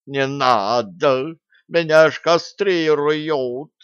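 slow, high, pleading wail; panicked cat. A narrator's reading. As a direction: beg in panic, dragging the words. Cat panics outside door.

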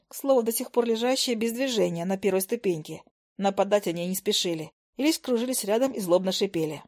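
plain reading voice

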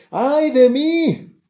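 high, loud anguished cry; a loud, high, drawn-out wail of woe. Retold or imitated. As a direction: cry it out slowly like a prophet undone.

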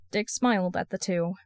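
ordinary delivery, nothing marked

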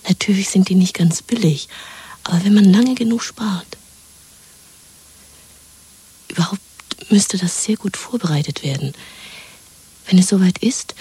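conspiratorial whisper. Acted. Woman plotting escape with her lover: whisper. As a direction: plot it under your breath.

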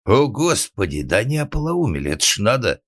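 loud, high exasperated cry; exasperated outburst. A narrator's reading. Karl at the end of his patience, exasperated cry. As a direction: throw up your hands, out of patience. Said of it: "произнёс Карл, у которого уже не было сил терпеть".

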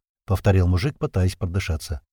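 ordinary delivery, nothing marked

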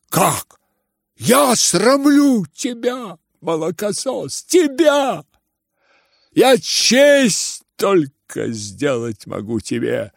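high, loud, slow indignation; enraged outcry. Acted. Father to his son, enraged outcry. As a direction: hurl it back at the boy.

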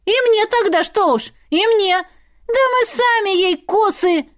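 put-on high, excited girlish voice; young girl joining a quarrel, excited and high; eager chime-in. Girls join the quarrel.

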